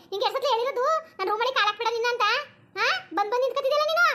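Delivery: scolding mistress. Acted. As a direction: tear into the servant for overstepping.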